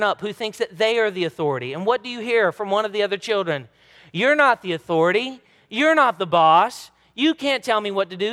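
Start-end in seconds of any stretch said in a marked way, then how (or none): 4.1-8.3 louder mock child saying you're not the boss; a child telling another child they're not the boss, in a mock indignant voice; child's protest. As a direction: play the indignant sibling.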